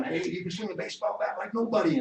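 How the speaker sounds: whispering to unborn son. Retold or imitated. Father whispers to his son in the womb, soft and gentle. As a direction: breathe it gently toward the belly. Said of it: "I'm whispering down there to my son".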